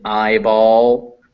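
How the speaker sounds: slow, stretched "eyeball"; example word for I. Shown as a demonstration. Teacher giving an example of I, slow "eyeball". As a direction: draw out the ah-to-I glide in "eyeball". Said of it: "That makes I".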